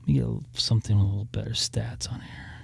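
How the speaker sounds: breathless, whispered after climbing stairs; out of breath. Real, not acted. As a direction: catch your breath between words. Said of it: "I'm out of breath because I just walked upstairs".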